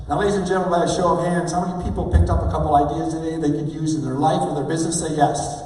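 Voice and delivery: rally the audience for a final yes; big presenter's wrap-up demo; rousing tie-up. Shown as a demonstration. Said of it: "That's how you tie it up".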